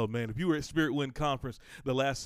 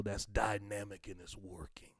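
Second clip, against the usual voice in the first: whisper; 3 semitones lower, 6 dB quieter than usual. Acted. Whispered scripture.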